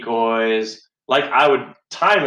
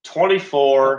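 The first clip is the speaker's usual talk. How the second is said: louder, higher repeat in disbelief; incredulous; 5 semitones higher, 4 dB louder, slower than usual. Real, not acted. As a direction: hit it again, more stunned. Disbelief at friends' age.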